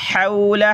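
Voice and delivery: "हौला" opening on a breathy H from the throat; throaty haa. Shown as a demonstration. Teacher showing the letter haa, "हौला" begun from the throat. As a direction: chant "हौला" with a pharyngeal first sound. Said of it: "हा को गले से निकालें".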